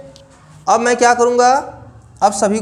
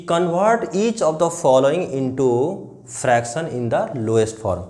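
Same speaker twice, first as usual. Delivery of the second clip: very slow, word by word reading; slow dictation; 5 semitones lower, much slower than usual. Shown as a demonstration. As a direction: read the question out slowly for the class. Reading question aloud.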